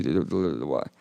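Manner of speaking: creaky dropped fry; low creaky stammer; vocal fry. Shown as a demonstration. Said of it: "I'm pretending like the note".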